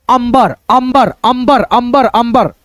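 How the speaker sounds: अंबर as am-bar, repeated in even beats; joined m-b. Shown as a demonstration. Teacher drilling how to read it, अंबर repeated as अम्-बर. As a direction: close the म into बर in अंबर. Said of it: "कैसे पढ़ेंगे".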